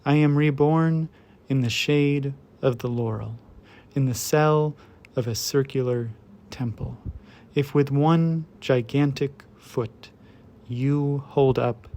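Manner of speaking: measured, deliberate poem recital; poetry reading. Acted. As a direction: read it as verse, phrase by phrase, letting each image land. Reads a poem aloud.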